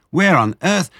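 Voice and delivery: high, loud amazed outburst; can't believe it, cut off; astonished cry. Acted. Mother fox amazed at the chickens, high cry. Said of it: "she cried".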